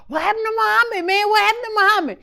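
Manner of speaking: imitated high, excited questions; mock alarmed questioning. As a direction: pitch it up like startled onlookers. Imitates camp members' alarmed questions.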